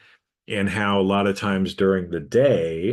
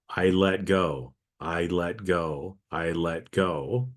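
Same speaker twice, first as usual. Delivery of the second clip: calm self-talk; 3 semitones lower, 5 dB quieter, slower than usual. Shown as a demonstration. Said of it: "tell myself".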